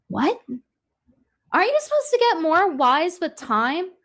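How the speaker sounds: mock him with rhetorical questions; incredulous. Real, not acted. Incredulous mocking reaction.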